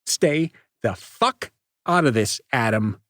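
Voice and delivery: snarling at Adam to butt out; snarled threat. Acted. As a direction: snarl it at him. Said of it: "Nate snarled".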